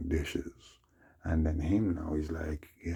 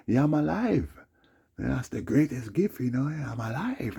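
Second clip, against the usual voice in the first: forced cheer; 9 semitones higher, 4 dB louder than usual. Retold or imitated. Greeting the girl.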